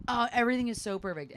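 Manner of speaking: high, fake-perfect gush; mock the cheery online front; imitating sugary false positivity; pretending everything's great. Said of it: "people are just pretending that everything's really great".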